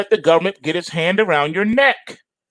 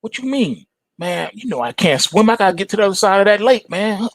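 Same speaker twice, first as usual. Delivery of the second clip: scorpion voice; 4 semitones higher than usual. Acted. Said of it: "Scorpion says".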